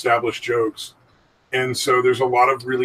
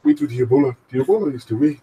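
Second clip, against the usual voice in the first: put-on Ugandan Knuckles accent; faster than usual. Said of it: "You know, the fucking accent".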